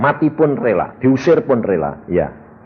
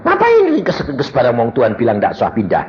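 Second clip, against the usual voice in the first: indignant retort. Retold or imitated. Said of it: "Aku bilang".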